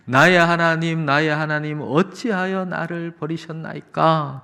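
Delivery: imitated cry of Jesus to God. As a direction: call out the plea, drawing out the end. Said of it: "그렇게 외치심으로".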